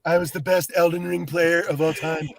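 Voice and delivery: lightly voiced Trump; a hint of Trump bragging; Trump impression. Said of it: "Every time I try and do Trump".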